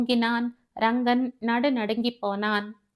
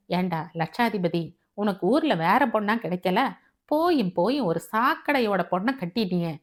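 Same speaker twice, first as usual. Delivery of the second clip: a touch of scornful reproach; mildly angry scolding. Acted. Venki berates the lottery winner over his marriage, mildly angry. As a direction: scold him with mild disgust. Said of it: "என்று ரங்கனிடம் சீறினான்".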